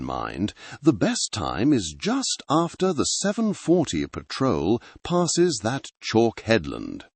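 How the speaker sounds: a hint of a rustic Sussex fisherman's accent, low burr; local Sussex accent. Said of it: "his voice a low burr, thick with the local accent".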